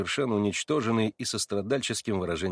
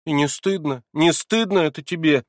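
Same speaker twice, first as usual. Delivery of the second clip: flaring, a bit louder; angry reproach; 6 semitones higher, 6 dB louder than usual. A narrator's reading. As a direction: scold with rising anger. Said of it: "вся загоревшись от гнева". (с гневом, укоризненно)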